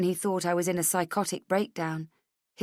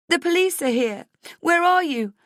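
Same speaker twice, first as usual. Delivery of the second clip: panicked; 12 semitones higher, 6 dB louder than usual. A narrator's reading. Friend panicked.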